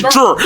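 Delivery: mock Junior cut down to JUR; dad's clipped pronunciation. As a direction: mimic dad squashing Junior into JUR. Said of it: "he says".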